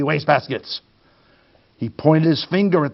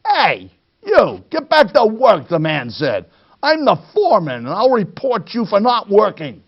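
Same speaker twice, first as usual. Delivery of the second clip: bossy foreman shout; 5 semitones higher than usual. Acted. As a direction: yell at the slacker. Foreman barks at bear.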